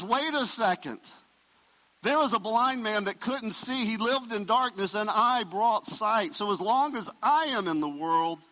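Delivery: preacher lifting the voice for Jesus. Acted. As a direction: proclaim it with fire. Jesus voiced as speaking, raised.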